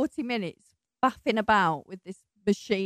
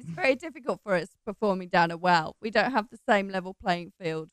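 down a well. Real, not acted. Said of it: "you're literally underground".

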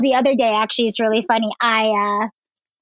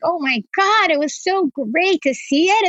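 higher, overwhelmed exclamation; retold crying; 5 semitones higher than usual. Woman tells podcast host about crying over progress, mock-tearful. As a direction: lightly mimic happy tears. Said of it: "like, crying about it".

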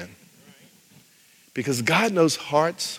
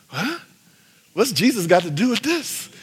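mock puzzlement; 5 semitones higher than usual. Concertgoer puzzled by the song's words, mock bafflement. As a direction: play a baffled listener.

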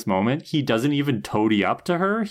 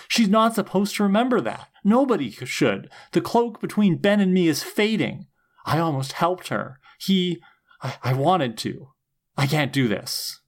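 freaking out; 6 semitones higher than usual. Retold or imitated. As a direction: panicky villain losing it, pitched way up. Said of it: "freaks out at the minions".

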